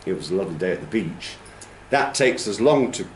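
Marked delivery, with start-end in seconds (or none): 0.0-1.4 "It was a lovely day at the beach" said fast, three beats; English stress timing. Shown as a demonstration. Teacher shows English timing, three quick stresses in "It was a lovely day at the beach". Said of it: "only got three syllables in it".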